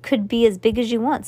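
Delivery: eager and bright, pushing forward; enthusiastic. Acted. Max Ernest excitedly explains to Cass, enthusiastic. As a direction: sell the idea with real eagerness. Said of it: "said Max Ernest enthusiastically".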